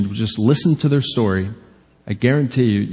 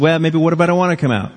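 quick, casual mock backtalk; imitated banter, tossed off fast; 3 semitones higher, faster than usual. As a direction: play at bantering back, in a hurry. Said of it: "They bantered a little bit".

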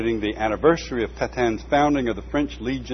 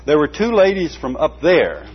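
piping voice; 5 semitones higher, 7 dB louder than usual. A narrator's reading. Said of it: "the piping voice with an accent".

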